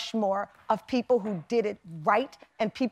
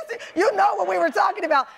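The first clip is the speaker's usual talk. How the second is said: mock confrontation; 8 semitones higher, 3 dB louder, faster than usual. Retold confrontation with a guest.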